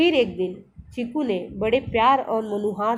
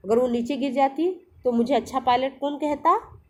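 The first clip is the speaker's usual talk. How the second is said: affectionate scolding; 2 semitones higher than usual. Acted. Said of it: "प्यार से डांटते हुए कहा".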